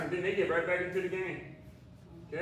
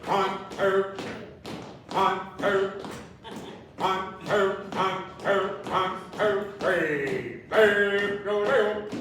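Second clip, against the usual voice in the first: aerobics instructor; 5 dB louder, slower than usual. Acted. Calling steps to music.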